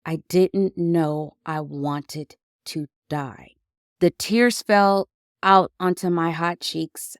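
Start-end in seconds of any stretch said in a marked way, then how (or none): 0.1-3.6 stunned. Retold or imitated. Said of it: "saying to myself".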